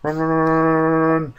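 panicked high yelling; frantic, breathless run chant; screaming at a spider. Real, not acted.

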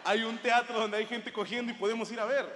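loud eager shout to his friends; excited call. Retold or imitated. Pitching a sex show to friends, loud and eager. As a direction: pitch it loudly, all eager.

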